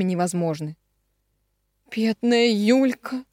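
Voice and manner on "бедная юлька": tearful pity. A narrator's reading. Marina grieves for her daughter, close to tears. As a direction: lament as tears come back. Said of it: "проговорила Марина и снова заплакала".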